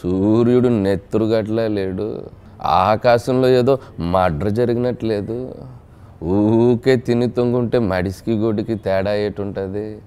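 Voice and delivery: slow, weighty village-elder drawl; Rao Gopal Rao impression. Mimic asked by host delivers the veteran actor's slow pompous dialogue. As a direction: lay out each line slowly like a pompous elder. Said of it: "Rao గోపాలరావు గారు".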